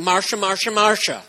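a light mock of the whiny sister line; Marcia, Marcia, Marcia rising in a teasing sing-song; lightly voiced jealous sibling whine; mocking Brady Bunch whine. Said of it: "That would be a very different".

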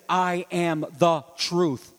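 slow, weighted "the" in "I am the truth"; slow, deliberate emphasis on "the"; stress on the. Shown as a demonstration. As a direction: lean on "the" with full weight. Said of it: "Definite article, the truth".

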